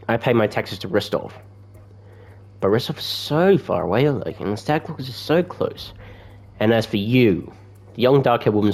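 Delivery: lightly put-on British character voice; attempted British accent. Oleg complains about thugs robbing settlers, lightly put-on British accent. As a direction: play an aggrieved trader with a touch of British. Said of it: "British personality".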